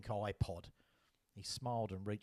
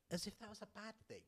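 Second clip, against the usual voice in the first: sarcastic; 11 semitones higher, 7 dB quieter, faster than usual. Real, not acted. Sarcastic aside.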